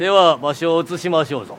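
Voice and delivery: lightly voiced old samurai lord; warlord speech. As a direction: speak like a feudal warlord. (武将言葉)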